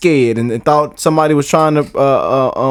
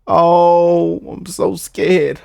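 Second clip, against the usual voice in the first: mock scared; much slower than usual. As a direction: drag it out like a pretend-scared kid.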